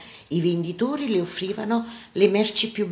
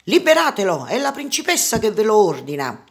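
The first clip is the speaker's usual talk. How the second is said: loud, higher-pitched royal order; imperious, raised-voice command; commanding princess; 4 semitones higher, 6 dB louder than usual. A narrator's reading. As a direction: order the guards to release him. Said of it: "Jasmine comandò".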